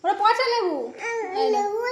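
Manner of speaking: high, loud, laughing through words. Real, not acted. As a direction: talk while laughing. Laughing while scolding child.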